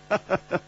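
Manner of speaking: light laugh. A narrator's reading. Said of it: "楚留香微笑着说".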